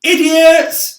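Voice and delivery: high, full-throated yell; yelling insults. Acted. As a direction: bellow it across the sky at them. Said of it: "he yelled".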